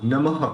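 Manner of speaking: नमः ending in a distinct audible h breath; नमः with a crisp final h; clear visarga. Shown as a demonstration. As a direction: let the ह of नमः be clearly heard. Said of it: "वो ह इस तरह से clear सुनाई देना चाहिए".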